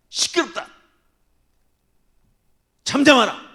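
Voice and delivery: loud high scolding; crowd rebuking. Retold or imitated. The crowd shouting down the blind beggar.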